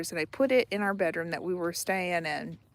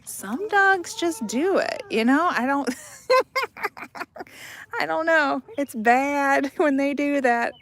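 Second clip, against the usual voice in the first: higher and louder, laughing through the words; 6 semitones higher, 5 dB louder than usual. Real, not acted. Telling viewers about dogs, laughing. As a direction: laugh as you speak.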